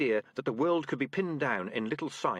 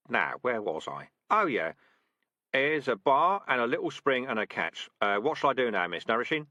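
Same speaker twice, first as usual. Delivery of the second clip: louder, falsely polite sergeant; mock polite; 4 dB louder than usual. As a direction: feign helplessness to teach a lesson. Dark Tan mock-politely asking.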